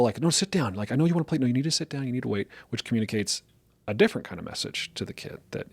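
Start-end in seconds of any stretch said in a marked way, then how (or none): 0.2-2.5 coddling parent. Retold or imitated. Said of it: "they'll coddle".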